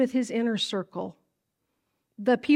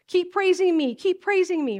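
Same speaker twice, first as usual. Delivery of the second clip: voicing Jesus; 7 semitones higher than usual. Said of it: "And he's like".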